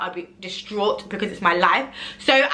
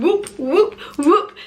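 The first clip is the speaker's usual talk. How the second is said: much higher, louder party whoops; high excited whoop whoop; celebratory whoop; 8 semitones higher, 5 dB louder, slower than usual. Real, not acted. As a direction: cheer it like you just won. Celebrating twenty thousand in sales.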